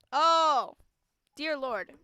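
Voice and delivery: a loud flustered oh; startled oh. Real, not acted. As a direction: blurt it out shocked. Flustered reaction.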